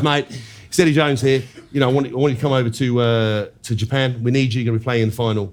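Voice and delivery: lightly put-on Australian accent; rough go at an Australian coach; Eddie Jones. Coach calls player over to Japan, mock Australian accent. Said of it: "It is sort of Australia".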